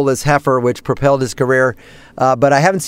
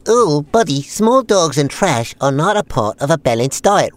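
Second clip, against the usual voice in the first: Australian character voice. Acted. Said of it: "a lot more Australian".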